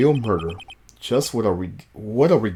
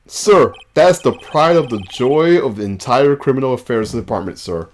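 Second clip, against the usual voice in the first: lightly voiced officer reporting, raised in pitch; eager police officer; 2 semitones higher, 4 dB louder than usual. Officer proudly answering a superior in the game, eager. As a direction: report dutifully to a superior, slightly worked up.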